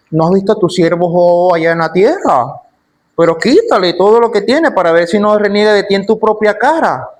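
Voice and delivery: Satan taunting with swooping pitch peaks; brazen, daring challenge. Acted. Satan challenging God to test his servant Job, brazen. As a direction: throw it out as an audacious dare. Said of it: "es osado y es atrevido".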